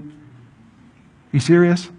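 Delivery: very slow, drawn-out incredulity; teasing the listeners who wait for a Netflix cure, in slow disbelief; mock disbelief. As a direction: stretch it out like you can't believe it.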